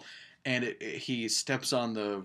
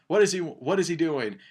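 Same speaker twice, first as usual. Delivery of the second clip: loud, higher call down the stairs; mother yelling down; 6 semitones higher, 6 dB louder than usual. Retold or imitated. Mother yells down at her daughter, loud and higher. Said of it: "the mother yells down".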